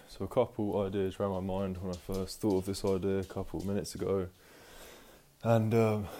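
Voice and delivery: winded from climbing stairs; out of breath. Real, not acted. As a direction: talk while catching your breath. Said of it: "sorry, out of breath, walking upstairs".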